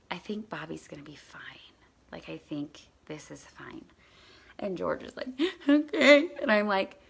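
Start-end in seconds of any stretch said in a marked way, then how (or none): 0.1-3.8 hushed, near-whispered comfort; calm an upset child very softly; quiet reassurance. Retold or imitated. 5.7-6.3 high, loud mock-tearful kid; crying child.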